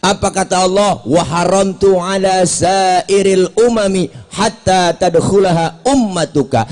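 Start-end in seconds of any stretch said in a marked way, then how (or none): 1.0-6.6 slow Arabic recitation. Acted. Preacher reciting Arabic hadith.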